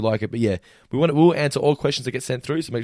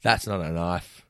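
slow Aussie movie quote; 4 semitones lower, 4 dB quieter, slower than usual. Retold or imitated. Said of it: "quoting the film line".

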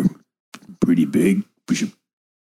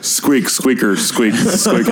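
squirrel squeaks; 4 semitones higher than usual. Pretend. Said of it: "Kronk speaking squirrel".

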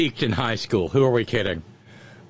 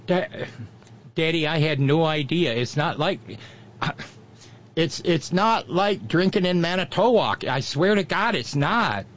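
put-on drunk Yankee kid; 4 semitones higher than usual. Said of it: "and then the kids".

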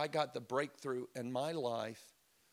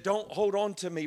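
firm, louder call; Jesus speaking out; 7 semitones higher, 7 dB louder than usual. Acted. Preacher voicing Jesus to Mary.

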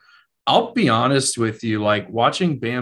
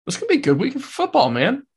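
excited; 13 semitones higher, faster than usual. Real, not acted. Repeats his line, much higher, faster.

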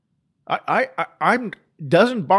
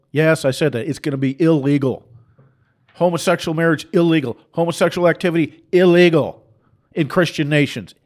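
forceful preaching. Real, not acted. Preacher building to fierce declaration.

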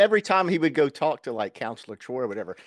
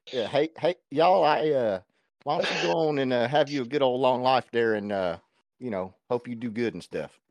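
Boomhauer drawl. Retold or imitated. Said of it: "just sounds like Boomhauer".

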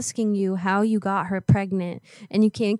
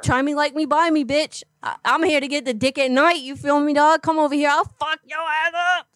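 put-on tough-girl threat; 4 semitones higher than usual. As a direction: talk trash like a street fighter. Prank caller keeps taunting.

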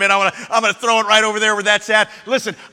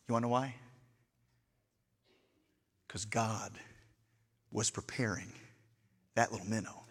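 hushed sermon aside; 13 semitones lower, 20 dB quieter than usual. Acted. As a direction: lean in and hush the congregation. Hushed preaching drop.

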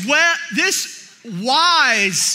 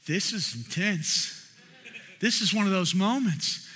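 hushed understatement; 4 semitones lower, 7 dB quieter than usual. Retold or imitated. Stunned bystander to himself after the screaming, hushed. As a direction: drop to a quiet, awed observation.

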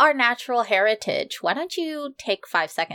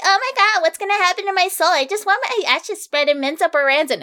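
high, fretting mock mom; pitched-up parody of mom's wailing; imitated mother; 7 semitones higher, 4 dB louder than usual. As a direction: mimic a dramatic, worrying mother. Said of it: "And Mom's all like".

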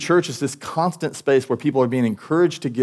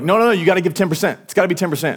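insistent rule-maker; 6 semitones higher, faster than usual. Retold or imitated. Insistent tithe enforcers quoted.

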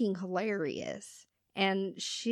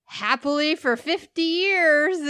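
sarcastic; 7 semitones higher, 8 dB louder than usual. Retold or imitated. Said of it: "All kinds of sarcasm".

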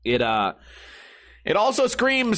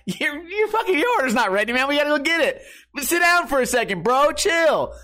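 a higher, dude-ish stoner clerk voice; mock bud tender; 8 semitones higher than usual. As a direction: play the laid-back teen clerk telling him to chill. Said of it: "They're like".

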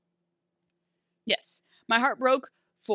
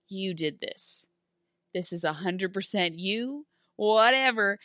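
sassy comeback. Retold or imitated. Blue fairy turning blame back on him, sassy comeback. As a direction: toss the blame back, unbothered. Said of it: "not as sassy as she was".

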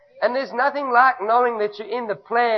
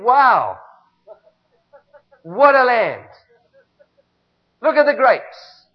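awed spies; 6 dB louder, slower than usual. Retold or imitated. Spies marvelling at land.

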